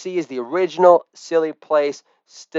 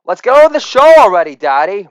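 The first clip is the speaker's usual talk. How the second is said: put-on impatient kid; 3 semitones higher, 4 dB louder, faster than usual. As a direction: hurry Dad along like a pushy kid. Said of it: "Hardcore Hunger says".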